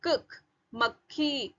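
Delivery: कख as a half k run into kh, then slow मक्खी; joined consonants. Shown as a demonstration. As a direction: hold the half k in मक्खी before releasing kh. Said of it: "जैसे आधा क और ख".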